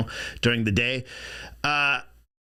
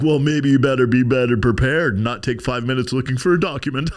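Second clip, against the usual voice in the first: Johnny Depp; 5 dB louder than usual. Retold or imitated. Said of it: "then Johnny Depp's like".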